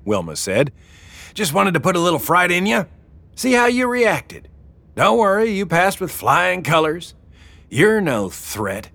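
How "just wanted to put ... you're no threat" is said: put-on higher, fast teasing old woman; amused, gloating over the prank; Wilma's voice. A narrator's reading.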